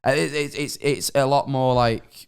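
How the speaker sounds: lightly forced northern English accent. Shown as a demonstration. Streamer showing co-hosts their old accent, northern English. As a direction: slip back into up-north English speech. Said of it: "Do it up north".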